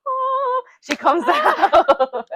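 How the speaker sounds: slow, joyful words broken by a laugh; real happy laugh mid-sentence; laughing through it. Real, not acted. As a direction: let the laugh spill into the line. Moment of birth, laughing.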